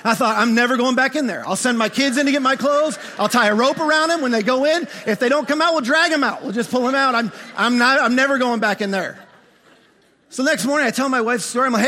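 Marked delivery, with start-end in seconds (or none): 0.4-9.2 comically emphatic, raised-voice vow; hammed-up protest, louder; retold stubborn refusal. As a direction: rattle off an absurd plan, worked up. Retold panicked refusal to re-enter closet.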